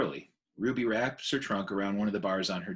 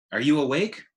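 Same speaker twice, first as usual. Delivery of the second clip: put-on louder, higher, eager child's call; eager little elephant; 5 semitones higher, 6 dB louder than usual. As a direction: wake him like an impatient little one. Ruby wakes her friends at dawn.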